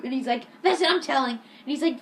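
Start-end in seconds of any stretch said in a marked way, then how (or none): 0.6-1.4 higher, louder fed-up retort; mock outrage. Jake threatens to tell on Eric, imitated indignant outburst. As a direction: imitate a kid who has had enough.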